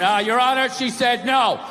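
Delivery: monotone, lifeless courtroom reading; flat bad read. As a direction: read it dead flat like a bored clerk. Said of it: "some guy reading it".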